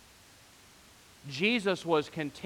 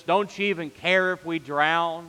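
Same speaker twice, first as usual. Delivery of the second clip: raised, louder cry of panic; panicked shout; 4 semitones higher, 5 dB louder than usual. Retold or imitated. Disciples shouting to Jesus in the storm, panicked. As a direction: call out as if the boat is sinking. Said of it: "they shouted to Jesus".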